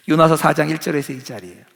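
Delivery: ordinary talk, nothing marked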